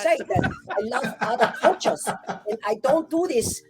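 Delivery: nervous laughing. Real, not acted. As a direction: laugh the disclaimer off. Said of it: "nervous disclaimer".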